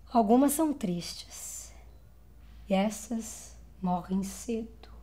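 breath-soft, slowing sorrow; quiet, grieving tone; sad, hushed. Acted. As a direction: let it sink into a mournful near-whisper. Voice paints the sad women.

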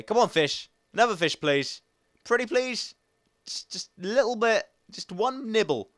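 high, wheedling little beg; playful pleading. Pretend. Begging a fish to bite, high playful pleading.

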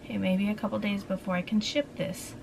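breathless after climbing stairs; short of breath, winded. Real, not acted. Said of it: "Sorry, I'm out of breath".

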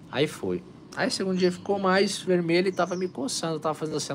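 usual speaking voice

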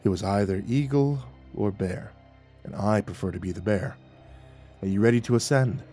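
low, soft, mildly apologetic. A narrator's reading. Falling Sky explaining the choice of animals, apologetic. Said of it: "Falling Sky said apologetically".

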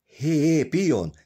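high, loud excited call; shouting. A narrator's reading. Big Joe hitting something while digging, shouting. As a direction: call out to your partner. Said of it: "kiáltotta".

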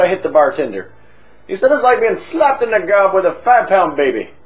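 boozy Irish pub regular, chatty and cheeky; hammed-up Irish drunk telling a tale; stage Irish accent. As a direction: lay on a thick comic Irish brogue. Held Irish voice.

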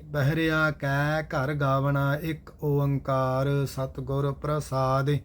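steady, measured chanted reading of scripture; gurbani recitation. Acted. Teacher recites verses for the class in steady recitation. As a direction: recite each line evenly and devoutly.

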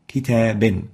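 كتاب spoken with a final nun, falling; tanween demo. Shown as a demonstration. A teacher finishing the tanween example for the class. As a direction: close كتاب on a clear nun. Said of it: "فتلفظ كتابا".

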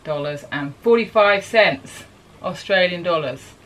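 drawn-out announcement of a big figure; slow reveal. Real, not acted. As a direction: spell out the total slowly, weightily. Drum-roll reveal of repair bill.

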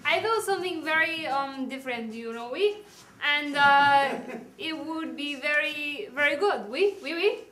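a light, hammed-up French accent; bad French accent. The French architect pitches her pyramid plan, in a light bad French accent. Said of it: "really bad accent French".

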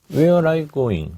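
careful English sentence said slowly for practice; slow practice repeat. Shown as a demonstration. Teacher drilling the phrase slowly aloud. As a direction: sound out each word slowly into the mic. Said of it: "소리 내서 연습하라고".

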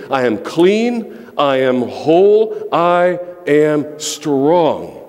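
slow, firm, each claim planted; a slow proclamation, last words nearly sung; defiant declaration. Shown as a demonstration. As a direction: declare it slowly to the addiction. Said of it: "you need to announce to that addiction".

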